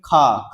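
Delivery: खा with a puff of air after the K; खा drawn out after the release; aspirated release. Shown as a demonstration. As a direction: hold the air, then release it in खा. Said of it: "तुरंत हवा बाद में निकलेगा".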